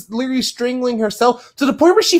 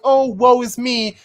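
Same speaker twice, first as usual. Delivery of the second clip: mock self-pity; 5 semitones lower than usual. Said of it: "You just wanna act like".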